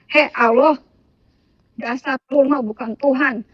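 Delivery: retold outburst, loud opening call; rough, rude address. Retelling lashing out at Allah at dawn, roughly spoken. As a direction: call out roughly, somewhat annoyed. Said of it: "ngomong agak kasar".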